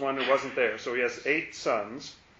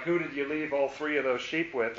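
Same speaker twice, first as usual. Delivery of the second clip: mock taunt; 3 dB quieter than usual. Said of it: "he's sort of taunting him".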